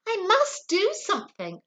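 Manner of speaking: a touch of desperation; desperate thought. A narrator's reading. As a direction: think it in a panic. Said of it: "I thought desperately".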